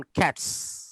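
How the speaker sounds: "ক্যাটস" with a crisp voiceless s at the end. Shown as a demonstration. Teacher showing students the hard-consonant rule, ক্যাটস ending in s. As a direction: end "ক্যাটস" on an unvoiced sss. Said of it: "এস এর উচ্চারণটা এস এর মতো হয়".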